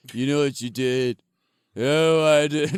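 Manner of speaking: loud, hammed-up menace; lightly voiced villain taunting a head; mock interrogation. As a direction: play both the killer and the head. Voicing killer and severed head.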